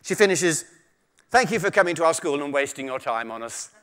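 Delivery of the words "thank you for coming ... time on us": posh voice. Retold or imitated. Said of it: "I'm gonna have to use my posh voice for this".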